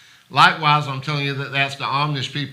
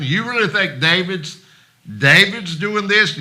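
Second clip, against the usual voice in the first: doubtful, sneering disbelief, a bit higher; sceptical mocking question; 4 semitones higher than usual. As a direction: scoff at David's gesture as the princes would. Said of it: "how they were talking very similar to how I was doing".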